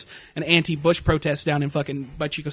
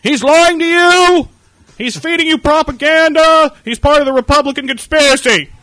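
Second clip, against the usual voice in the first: much higher, louder ranting; rally the crowd against him; indignant protest shout; 10 semitones higher, 10 dB louder than usual. Pretend. Fake protester yelling at a homeless man, indignant shout. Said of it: "shout indignant things".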